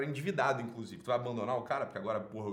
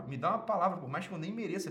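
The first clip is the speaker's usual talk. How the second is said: mocking whiny plea; 3 semitones higher than usual. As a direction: parody her self-pitying plea. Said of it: "Pelo amor de Deus, Chuchu".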